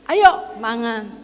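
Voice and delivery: slow, drawn-out Solo intonation; Solo accent. Retold or imitated. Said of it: "kadang dia ingat". (logat Solo pelan, nada belakang turun)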